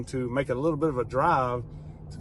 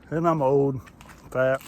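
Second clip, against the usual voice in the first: out of breath; 3 dB louder than usual. Real, not acted. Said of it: "huffing and puffing already".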